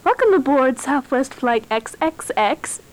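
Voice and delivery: flight attendant. Pretend. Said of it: "stewardess voice".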